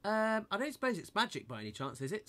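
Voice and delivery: put-on hopeful little-girl voice. A narrator's reading. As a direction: ask timidly, hoping for a yes. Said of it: "said Moldy Pubes hopefully".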